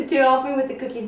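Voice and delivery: quick, laughing through the words. Real, not acted. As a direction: giggle and rush the line.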